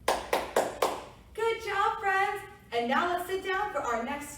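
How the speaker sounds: high loud praise; kindergarten teacher voice. Real, not acted. Praising kids after song.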